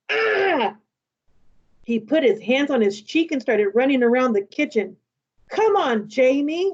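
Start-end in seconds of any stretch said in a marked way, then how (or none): 0.1-0.8 a short high yelp, not a real scream; mild imitated fright cry; mock scream. Little brother acts out his fright at the boy. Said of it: "It wasn't a scream". 5.5-6.7 mildly angry reproach. Acted. Mom reproaches her younger son, a touch angry. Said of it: "Mom said angrily".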